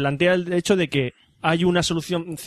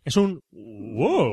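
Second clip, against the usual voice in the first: drawn-out wow; much slower than usual. Shown as a demonstration. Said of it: "¿Es un, es un qué?".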